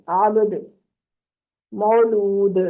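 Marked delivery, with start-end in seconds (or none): 0.1-0.7 आबद ending in a bounced द; qalqala bounce. Shown as a demonstration. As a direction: close आबद with a rebounding द. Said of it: "अब इसको अब्द नहीं पढ़ेंगे".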